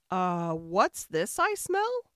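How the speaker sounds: loud, slow, sniffing ogre; dim booming ogre. Acted.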